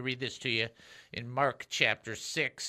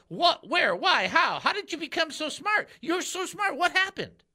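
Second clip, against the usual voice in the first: high, loud mock disbelief; incredulous townsfolk; 12 semitones higher, 4 dB louder than usual. Host imitating the townsfolk's amazed disbelief at Jesus, high and incredulous. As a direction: squeak out the crowd's amazement. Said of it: "It's like".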